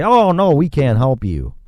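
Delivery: mock the lender turning you down. Mimics lender refusing.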